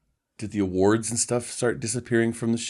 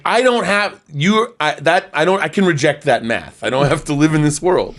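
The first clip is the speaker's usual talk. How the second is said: exasperated protest; 4 semitones higher, 4 dB louder than usual. Retold or imitated. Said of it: "And I'm like".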